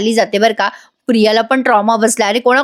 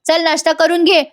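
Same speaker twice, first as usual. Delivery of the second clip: higher-pitched mock scolding; retold yelling; 5 semitones higher than usual. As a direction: mildly yell an order, pitched up. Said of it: "तिच्यावर ओरडते जोरात".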